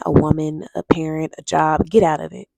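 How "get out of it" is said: right now, punched out loud; a sudden loud burst; loud urgent push. Real, not acted. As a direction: hammer home the urgency. Urgent warning to leave abuser.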